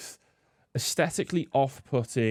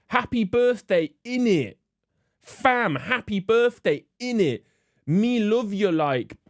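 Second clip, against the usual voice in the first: much higher, slow, hammed-up Multicultural London English; mock London street slang; 9 semitones higher, 3 dB louder, slower than usual. Mocking how young Londoners talk, in a hammed-up high slang voice. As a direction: send up the youth slang in an over-the-top voice. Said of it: "speaking like this".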